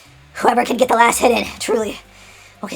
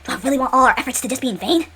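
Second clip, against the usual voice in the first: nervous; 3 semitones higher than usual. Acted. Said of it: "he's nervous and sweaty".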